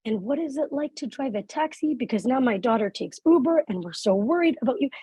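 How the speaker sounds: concerned dad. Retold or imitated. Dad asking the driver about driving a taxi, lightly imitated concern. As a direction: imitate a chatty, earnest dad.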